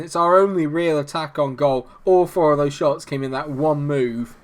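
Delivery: ordinary talk, nothing marked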